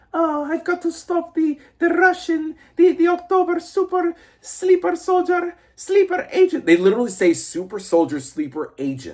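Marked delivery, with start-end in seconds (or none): 0.1-6.6 very high, best-effort put-on Russian accent. Recapping a Dragon Seed saga scene, quoting Black Widow in Russian accent. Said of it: "here's my best Russian accent".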